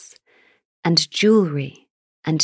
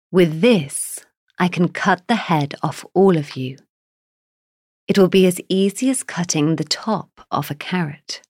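angry giant. Acted. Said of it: "his voice sounded like an angry, roaring bull".

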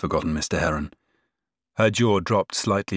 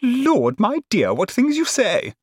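very high, indulgent exclamation; 3 dB louder, slower than usual. A narrator's reading. Cousin humours the outspoken girl, indulgently. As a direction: chide fondly, pitched very high. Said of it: "remarked Missus Malfrey indulgently".

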